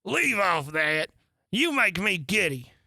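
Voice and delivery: irritated scolding. Acted. Queen scolds bowing gardeners.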